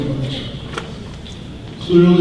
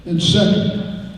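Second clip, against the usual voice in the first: measured formal reading of a warrant article. Real, not acted. Moderator reading the amendment to the town meeting, measured and formal. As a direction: read it out like an official motion.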